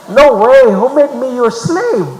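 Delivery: high, loud indignant refusal; defiant retort. Retold or imitated. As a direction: throw the demand back in their face.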